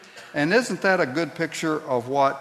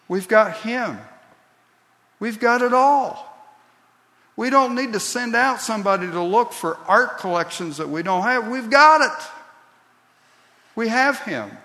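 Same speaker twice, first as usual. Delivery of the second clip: higher and louder, swelling to a near shout; fervent preaching climax; 7 semitones higher, 3 dB louder than usual. Real, not acted. Preacher exhorting the congregation, fervent climax. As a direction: preach it with rising fire. Sermon climax, rising fervor.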